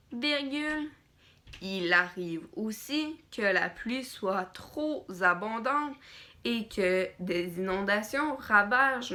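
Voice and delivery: dictating. Shown as a demonstration. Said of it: "Je vais lire phrase, dire, phrase par phrase, dire les points, dire les virgules". (dictée lente, ponctuation dite à voix haute)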